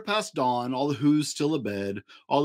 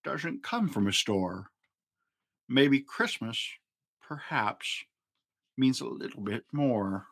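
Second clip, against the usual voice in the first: slow, softer, wondering; thoughtful Grinch; 3 semitones lower, 4 dB quieter than usual. A narrator's reading. Grinch realising something new, slow and wondering. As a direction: ponder it slowly, half to yourself. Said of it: "he thought".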